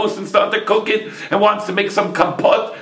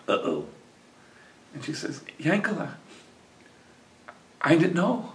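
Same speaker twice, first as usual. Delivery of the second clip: dismayed uh-oh; 9 dB quieter than usual. A narrator's reading. Wife realizes her mistake.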